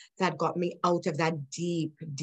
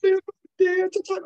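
high, louder, disbelieving repeat; incredulous echo; 11 semitones higher, 5 dB louder than usual. Retold or imitated. Repeating the voice's advice, high and incredulous. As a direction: throw the words back in disbelief. I was serious.

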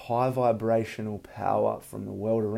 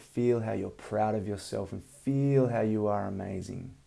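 calm breathing guidance, unhurried; soothing massage murmur. Acted. Leads a guided meditation.

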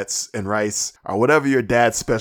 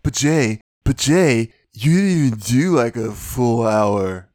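mock whiny fan; 6 dB louder, slower than usual. Shown as a demonstration. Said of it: "Just for you, a voice".

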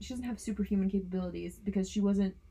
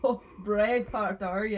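mock Scottish; 5 dB louder than usual. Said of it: "I can't do it".

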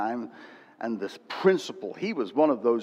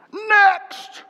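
loud, high call through a door; 9 dB louder than usual. Retold or imitated. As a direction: bark the next name in line. Principal calling again, last in queue.

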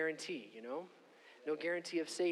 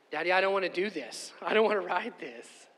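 scared daughter; 3 semitones higher, 7 dB louder than usual. Retold or imitated. Scared child pleading with dad.

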